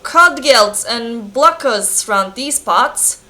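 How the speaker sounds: clumsy Scottish blacksmith voice; amateur Scottish character read; bad Scottish accent. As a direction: attempt a Scots blacksmith. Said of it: "not my speciality to make Scottish accents".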